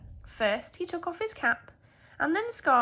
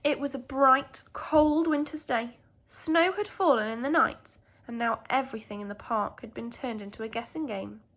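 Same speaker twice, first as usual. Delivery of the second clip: bright storybook reading voice; lively read-aloud for children; story narration. A narrator's reading. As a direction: read it like a teacher sharing a picture book.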